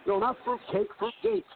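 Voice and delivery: Fruitgate with a high pitch jump on gate; firmly correcting the word Fruitgate. Shown as a demonstration. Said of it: "It was Fruitgate".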